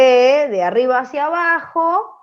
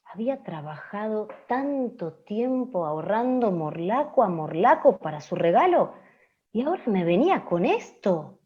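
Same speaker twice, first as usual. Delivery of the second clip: softer, swooping reproach; hurt radio-drama character; 6 dB quieter than usual. Acted. Gift-giver to the ungrateful other woman, hurt reproach. Reads radio script dialogue.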